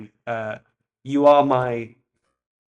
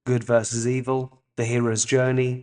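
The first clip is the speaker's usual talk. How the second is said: essay reading; 4 dB louder than usual. Real, not acted. Reads essay aloud.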